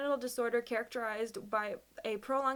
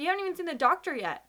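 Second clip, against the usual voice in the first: higher, louder, fast scolding quote; exasperated caller; 7 semitones higher, 5 dB louder, faster than usual. Retold or imitated. Caller scolding her for leaving the appointment, exasperated. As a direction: rattle it off like the annoyed caller. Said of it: "they said".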